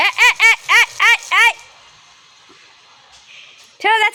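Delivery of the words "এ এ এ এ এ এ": light laughter over each এ; laughing. Real, not acted. Mother laughs as the child grabs the cat.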